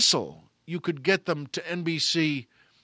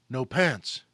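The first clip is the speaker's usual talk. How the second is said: low, stunned and hollow; ashen; 4 semitones lower than usual. Retold or imitated. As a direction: say it dazed with shock. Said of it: "with an ashen expression".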